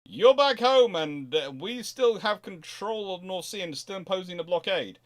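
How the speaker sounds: mock smug retort to the rival navy; gloating rebuttal. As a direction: lecture the loser on why you really won. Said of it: "the other side can go".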